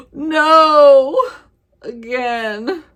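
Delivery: gasp, then a loud high wail; big theatrical "oh no" outburst; dramatic dismay. Real, not acted. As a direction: cry out in exaggerated dismay. Mock dismay at another novella.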